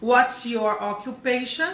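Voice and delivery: slow, clear model question; careful classroom model read; slow teaching model. Shown as a demonstration. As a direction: spell it out slowly for students. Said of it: "Vamos voltar aqui".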